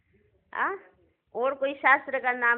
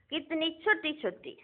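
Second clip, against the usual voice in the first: soft, higher voice for something tiny; hushed wonder; 4 semitones higher, 7 dB quieter than usual. Real, not acted. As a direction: marvel quietly at how tiny they are. Marvels at tiny souls. (धीमी आवाज़ में नन्हेपन पर अचरज)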